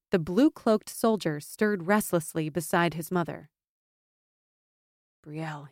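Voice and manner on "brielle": soft, hushed name; a quiet warning under his breath; hushed and low. A narrator's reading. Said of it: "he said in a low voice".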